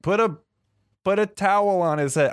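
put-on high, bossy old lady fussing; fussy old lady. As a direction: fuss over him like a worried grandma. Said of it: "Barbara Bush is like".

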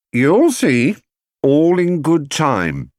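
slow, teasing secret-keeper; mysterious. A narrator's reading. Housekeeper teasing the family, slow and knowing. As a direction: withhold it with a knowing smile. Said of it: "she said".

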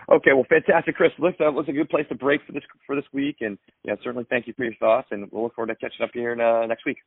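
upbeat sign-off. Real, not acted. Host wrapping up show.

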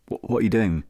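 hushed unvoiced question; whisper. Real, not acted. Asking a fellow plotter what he is doing, whispered. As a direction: whisper it like a secret. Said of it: "I don't know why I'm whispering".

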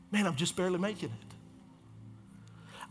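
soft, slow voice of someone struggling; weary confession. Retold or imitated. Pastor voicing people who are barely making it, weary. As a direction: quietly admit it, slow and worn down.

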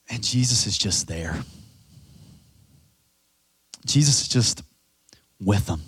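reverent, tender quiet; tender hush. Acted. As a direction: linger gently on each word. Tender emphasis on presence.

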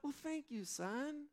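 preen like someone receiving praise; hammed-up high flattered thanks; mock flattered. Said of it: "I'm like".

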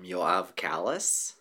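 Yoav Kalis, drawn out slowly; American pronunciation. Shown as a demonstration. Guest showing how Americans say the name, American pronunciation. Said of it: "so in America, you usually hear".

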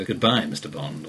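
smooth, low and suave. Shown as a demonstration. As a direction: purr it like a suave villain. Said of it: "Anybody else would just go ... quite suave".

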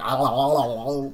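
put-on cooing goo-goo noises at a baby; light sing-song baby babble; baby talk. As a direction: coo at the baby like making funny faces. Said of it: "I'm doing the Google Gaga faces".

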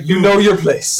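lightly voiced haughty monster; mock monster voice. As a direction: put the hero in his place, mock-lofty. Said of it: "He's like".

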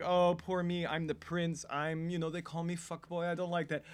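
imitating a self-pitying whine; mock complaining. Podcaster mimicking the prince's poor-me speech, mock complaining. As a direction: play the prince feeling sorry for himself. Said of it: "when he was complaining about".

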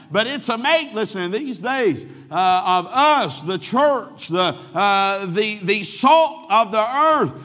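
loud, high fervent preaching. Acted. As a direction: preach it with full force. Preaching at full force.

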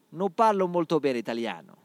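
Portuguese speaker putting on a light Italian accent; hammed Italian accent. Shown as a demonstration. Podcaster shows off his Italian accent to listeners. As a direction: lean into an Italian lilt, showing off. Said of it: "Reparem como o meu accent".

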